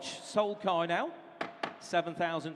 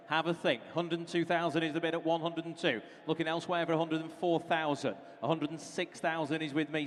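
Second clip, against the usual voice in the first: auctioneer. Acted. Auctioneer calling bids.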